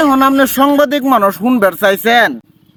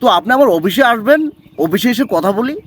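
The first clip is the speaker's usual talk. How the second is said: Kolkata Bengali, politely putting someone off; imitated Kolkata speech; Kolkata accent; 2 semitones lower than usual. Shown as a demonstration. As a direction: put on a Kolkata dialect, addressing "dada". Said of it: "আজকে প্রথমে কলকাতার ভাষায় শোনাবেন".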